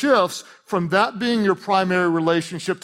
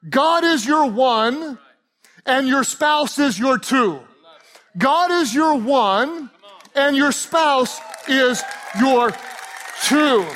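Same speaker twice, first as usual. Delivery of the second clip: slow, spaced, every word weighted; slow emphasis; 6 semitones higher, slower than usual. Shown as a demonstration. Pastor drilling the congregation's key phrase, slow and emphatic. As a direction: lay it down slowly, word by word. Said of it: "slow emphatic repetition of key phrase".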